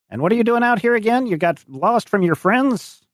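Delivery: high-pitched questioning farmer; high old farmer voice; old French farmer. Acted. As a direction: probe the stranger in a high, put-on voice. Game master voices old farmer.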